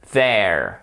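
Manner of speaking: "there" with tongue on the upper teeth; hard TH. Shown as a demonstration. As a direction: say "there" with a voiced TH, tongue against the top teeth. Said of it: "le hard, vous touchez avec la langue les dents du haut". (TH dur, langue sur les dents du haut)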